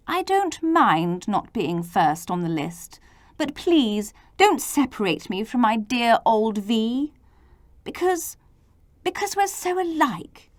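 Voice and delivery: a touch of a sad whimper, rising on because; W begging not to be separated; whimpering sadly. Acted. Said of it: "W whimpered sadly".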